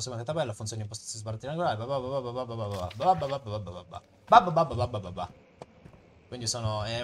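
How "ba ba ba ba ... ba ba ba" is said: louder rapid ba ba babble; playful nonsense syllables instead of reading; mock babble. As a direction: skim past the text with silly babbling.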